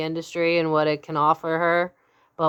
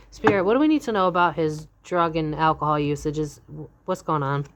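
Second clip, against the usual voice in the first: ordinary delivery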